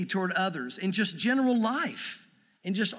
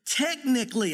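"Technically" set apart, pitched a little up; "Technically" said as the key word; stress on Technically; 3 semitones higher than usual. Real, not acted. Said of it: "I'm focusing on that word".

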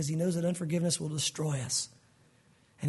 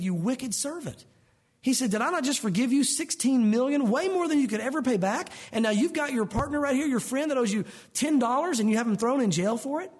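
angry king; 5 semitones higher than usual. Retold or imitated. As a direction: scold the servant like an outraged king. King rebuking the servant.

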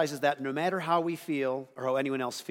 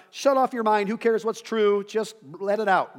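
louder, careless mock voice; parodying a thoughtless worshiper, louder; 5 semitones higher, 5 dB louder than usual. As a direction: ham up someone who says stop thinking. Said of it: "It's not".

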